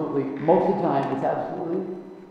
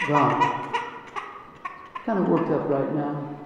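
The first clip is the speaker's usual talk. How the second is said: calm trusting prayer. Shown as a demonstration. Praying for the answer instead, calm and trusting. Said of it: "pray the answer".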